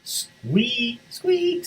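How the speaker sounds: high thin mouse squeaks; tiny squeaks. Acted. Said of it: "said the mouse".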